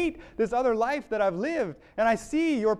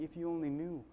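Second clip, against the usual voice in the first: gentle, understated forgiveness; a touch of tender sorrow; compassionate; 3 semitones lower, 3 dB quieter than usual. Acted. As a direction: say it with quiet compassion. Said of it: "looking at them with compassion".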